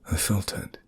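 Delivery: breathy hushed whisper. A narrator's reading. Narrator, feeling his legs again, whispering. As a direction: drop to a whisper as feeling returns.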